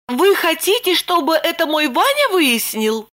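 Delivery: put-on high, startled young woman; Lipochka taken aback. A narrator's reading. Lipochka startled by Roman's request, high and disbelieving. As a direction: ask in disbelief. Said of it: "Липочка опешила".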